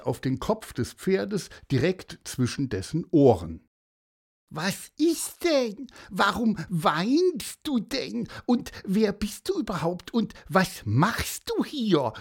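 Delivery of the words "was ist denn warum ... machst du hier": high inquisitive bird voice; Pieper, curious. A narrator's reading. Pieper questioning the weeping horse, high and curious. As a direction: pester with questions in a much higher voice. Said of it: "wollte Pieper natürlich neugierig wie immer".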